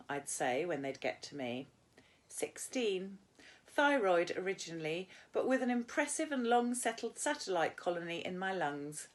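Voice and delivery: steady, clear read-aloud; measured classroom reading voice; story narration. A narrator's reading. Teacher reads novel aloud to class.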